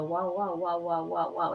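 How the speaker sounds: low, even "wow-wow" pulse; imitated beats. Shown as a demonstration. Teacher showing students what a beat sounds like, imitated wow-wow pulsing. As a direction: sound out a wavering interference beat. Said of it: "That's a beat".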